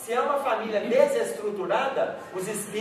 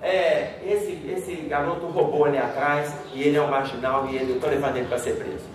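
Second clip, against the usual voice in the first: policeman's voice; 6 semitones lower than usual. Retold or imitated. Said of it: "o policial falou assim".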